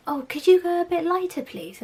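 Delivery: hammed-up whiny plea; mocking whiny client. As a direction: whine it like a pampered client.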